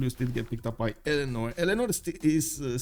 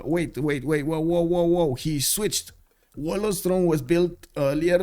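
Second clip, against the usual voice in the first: louder, higher startled outburst; startled surprise; 4 semitones higher, 5 dB louder, slower than usual. Real, not acted. Caster suddenly spotting the player's switch, startled. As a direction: react with alarm, building on the whoas.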